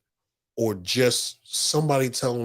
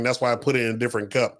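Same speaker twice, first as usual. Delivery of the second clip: ordinary talk, nothing marked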